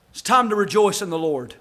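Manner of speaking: offhand, easy line, no preaching force; a hint of Nehemiah shrugging off the weeping; casual Nehemiah. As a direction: toss it off as a plain folksy nudge. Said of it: "the way I talk".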